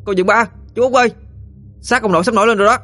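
high shouted call down to the dock; shouting loudly. Acted. Boy shouting down to his parents at the dock. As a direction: yell it down to the riverbank. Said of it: "mà la lớn".

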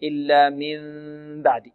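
gap left between the lips on the م of من بعد; wrong lip closure. Shown as a demonstration. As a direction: show the faulty مِن بعد with lips apart. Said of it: "لا يقرأها القارئ هكذا".

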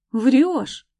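rumbling. A narrator's reading. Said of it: "пророкотал Марс".

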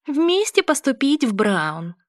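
high, slow squeaky mimicry; squeaky mocking voice. A narrator's reading. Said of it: "писклявым голосом передразнивает меня Грейс".

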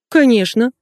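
high, emphatic exclamation; exclaiming. A narrator's reading. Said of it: "воскликнула Светка". (восклицая, уверенно)

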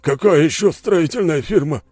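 bewildered. Acted. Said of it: "с недоумением переспросил генерал".

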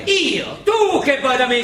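loud, indignant retort; angry shout. Acted. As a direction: throw the question back, loud and high. Heated quarrel between the two. (urlo indignato e rabbioso)

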